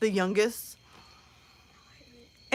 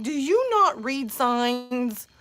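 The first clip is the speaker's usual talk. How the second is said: exasperated scold; much slower than usual. Retold or imitated. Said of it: "I'm like".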